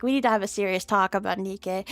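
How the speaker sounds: grave, solemn announcement; mock-serious warning to a friend. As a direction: say it like a heavy talk is coming. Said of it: "I make it sound serious".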